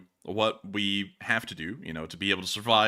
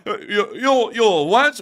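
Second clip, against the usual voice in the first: high, loud stammered outrage; theatrical arrestee taken aback; indignant disbelief; 9 semitones higher, 9 dB louder, slower than usual. Acted. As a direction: splutter in hammed-up shock. Acting out a famous arrest rant.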